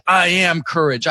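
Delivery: "I" drawn out slowly, then "am courage" falling away; slow affirmation with the weight on "I"; stress on I. Shown as a demonstration. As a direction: lean long on the word "I". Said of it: "I'd emphasize different words".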